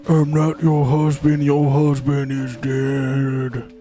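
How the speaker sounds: sinister impostor. Pretend. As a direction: drop it like a horror twist. Acted couple dialogue.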